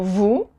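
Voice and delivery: "vous" said as voo, no S; silent final S. Shown as a demonstration. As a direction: drop the S of "vous", ending on the oo. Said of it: "you don't pronounce the S".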